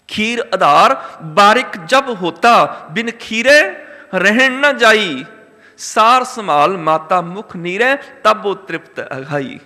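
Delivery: slow, measured verse with drawn-out words; scripture recitation. Real, not acted. Preacher quotes verse on infant needing milk, slow intoned recitation. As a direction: recite it in half-chant, weighting each phrase.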